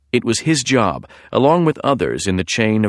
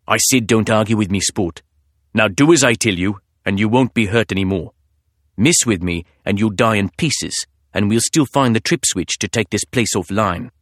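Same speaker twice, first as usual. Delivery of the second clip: put-on husky British accent. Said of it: "a man's husky voice".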